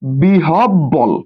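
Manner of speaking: "বিহব বল" very slowly, word by word, clipped final ল; model pronunciation. Shown as a demonstration. Teacher repeating the word for pupils, slow model pronunciation of "বিহব বল". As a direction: draw out each part of "বিহব বল". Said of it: "কি বল?".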